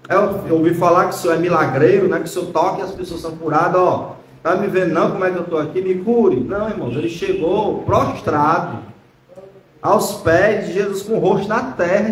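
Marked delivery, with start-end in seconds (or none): 0.1-6.4 quick, offhand imitation of a presumptuous request; casual demand. Sick man casually asking Jesus to heal him, imitated offhand demand. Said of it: "ele não chegou lá e disse assim".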